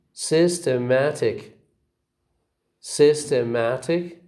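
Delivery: "Systematic" stressed on SYS and MAT; two stresses. Shown as a demonstration. Teacher shows example words, "Systematic" with two stresses, SYS and MAT. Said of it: "You see two stresses".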